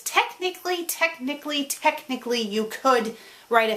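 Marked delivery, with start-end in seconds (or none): 0.0-2.4 grudging repeated technically; reluctant. Real, not acted. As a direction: drag out technically as if it hurts to admit. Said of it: "I am hating that I'm gonna say this".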